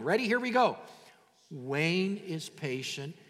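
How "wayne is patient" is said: very slow, drawn-out "Wayne is patient"; really slow. Shown as a demonstration. Pastor leaving room for longer names, "Wayne is patient" really slow. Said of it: "I'm gonna say it really slow".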